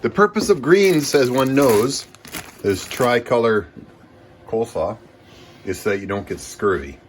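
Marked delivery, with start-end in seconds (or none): 0.0-5.0 high, loud put-on voice; grand, silly lecturing voice; weird voice. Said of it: "Why am I talking in this weird voice?".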